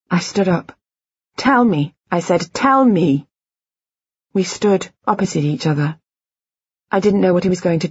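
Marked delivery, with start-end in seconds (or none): 1.4-1.9 tag-free demand. A narrator's reading. Demands truth from husband. 2.5-3.3 insistent demand. A narrator's reading. Demands truth, standing up.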